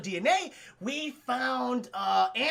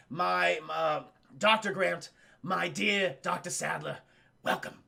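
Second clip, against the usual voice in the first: halting, lightly voiced grand host, lower; a hint of a proud host, fading on the last words; Richard Attenborough; 4 semitones lower than usual. Streamer playing the park's host welcoming guests, slightly hushed and halting. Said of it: "Richard Attenborough sells it".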